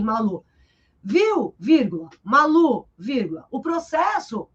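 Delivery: mock spoken punctuation. Shown as a demonstration. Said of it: "eu não vou falar com você agora assim". (falando vírgula em voz alta, brincando)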